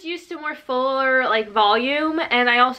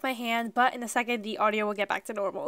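muffled, hand covering the mic; hand over the mic; 8 dB quieter, faster than usual. Real, not acted. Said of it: "I was covering the mic with my hand".

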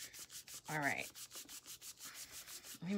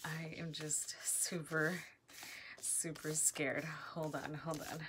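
scared whisper; 2 semitones lower, 7 dB quieter than usual. Real, not acted. Vlogger whispering her fear before pulling the strip. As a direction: whisper it, frozen stiff. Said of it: "I'm just terrified".

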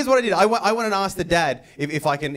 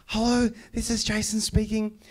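put-on polite little boy; 5 semitones higher, 3 dB quieter, slower than usual. Six-year-old answering phone.

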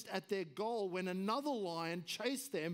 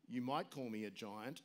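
large voice; 8 semitones lower, 4 dB quieter than usual. A narrator's reading. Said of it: "said the large voice".

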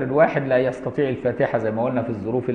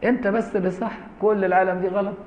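sarcastic; 8 semitones higher, 5 dB quieter than usual. Real, not acted. Sarcastic rebuke of the lone dissenter.

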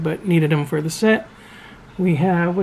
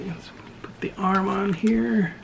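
whispering; 3 semitones higher, 7 dB quieter than usual. Real, not acted. Quietly assembling a figure.

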